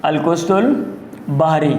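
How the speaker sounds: القسط البحری said slowly, with a pause between the two words; slow, separated القسط البحری for note-takers; slow dictation. Shown as a demonstration. Teacher repeats the term for dictation.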